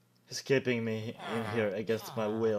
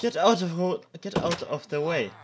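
loud, high annoyed shout; frustrated yell; 6 semitones higher, 8 dB louder than usual. Real, not acted. Player yelling at a mob in his way. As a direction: shout at the mob blocking you. Monster blocking his path.

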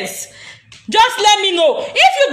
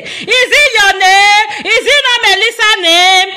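mock crying; slower than usual. Mock crying over Melissa's name.

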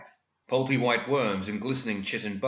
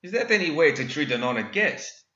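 higher, mock-hurt gentleman villain; smug villain; 6 semitones higher, 5 dB louder than usual. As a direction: feign offence with a smile. Villain Ven speaking.

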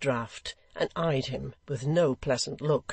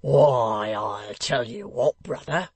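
friendly smile; 2 semitones lower, 5 dB louder, slower than usual. A narrator's reading. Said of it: "with a friendly smile".

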